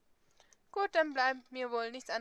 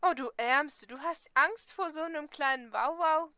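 mocking pity; 3 semitones higher, 6 dB louder than usual. Castiel mocks her fear.

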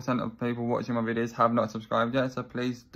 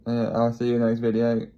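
louder, upbeat goodbye; loud sign-off; 6 dB louder than usual. Real, not acted. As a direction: call it out to viewers. Energetic sign-off.

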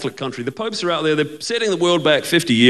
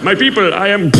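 mock-grand announcement, higher; proclaiming Messiah; 4 semitones higher, 4 dB louder than usual. Jesus greets his people on returning, mock-grand. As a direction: proclaim yourself to the crowd.

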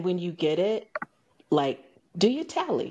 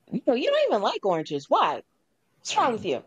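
higher, mock-puzzled questioning; raised pitch, quick retold challenge; puzzled concern; 5 semitones higher, faster than usual. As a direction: imitate a friend asking what's up. Retold friend questions the odd request.

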